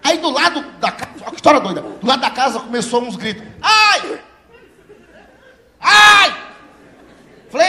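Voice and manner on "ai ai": high, loud cries of pain from next door; imitated neighbour's screams; retold screams. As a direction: shriek like someone being beaten.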